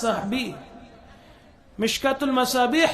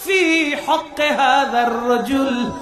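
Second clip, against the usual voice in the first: much higher and louder, slow and commanding; booming angel; 7 semitones higher, 7 dB louder, slower than usual. Acted. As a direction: thunder the angel's question. (ফেরেশতার গর্জনের প্রশ্ন)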